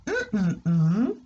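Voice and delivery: hummed gap in the sentence; placeholder hum. Shown as a demonstration. Teacher humming the blank for a pupil, hummed. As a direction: hum where the missing word goes. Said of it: "Tu peux me dire par exemple".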